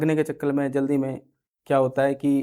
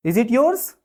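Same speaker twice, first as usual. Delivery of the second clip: higher, menacing "Is it yours?"; threatening; 6 semitones higher, much slower than usual. Shown as a demonstration. Teacher threatening someone over a pen, menacing. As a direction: ask it as a threat. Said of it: "धमका के बोलना है".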